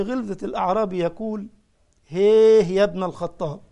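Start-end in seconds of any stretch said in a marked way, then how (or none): 2.1-3.6 loud, blunt call of a coarse Bedouin; rough Bedouin hail. Retold or imitated. Bedouin loudly hailing Caliph Omar with no manners, rough call. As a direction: bark the greeting like a rude desert Arab.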